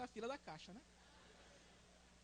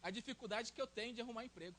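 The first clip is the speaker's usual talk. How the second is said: mild complaint; 7 dB quieter than usual. Retold or imitated. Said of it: "E você diz".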